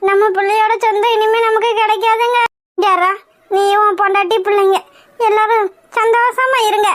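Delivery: acted tearful complaint; wailing lament. Mother bitterly wishes son's family happiness, tearful lament. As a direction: lament it with a mild sob. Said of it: "எதுக்காக இப்படி ஒப்பாரி வச்சிட்டு இருக்கீங்க?".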